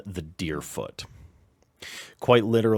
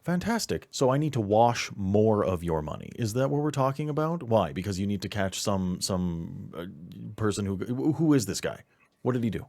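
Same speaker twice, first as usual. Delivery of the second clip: irate handler; 4 semitones higher, 5 dB louder, faster than usual. Acted. GM voices irate handler on phone.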